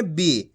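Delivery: बी said on its own with only a slight stretch, falling; short-i syllable demo. Shown as a demonstration. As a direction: demonstrate बी as a teacher, not drawn out far. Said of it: "कम खींच के पढ़ा जाता है".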